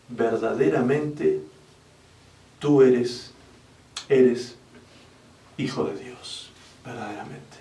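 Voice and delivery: slow, soft words fading to a whisper; awed hush. Acted. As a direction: breathe it out in reverent awe. Disciples worship, awed confession. (susurro reverente y lento)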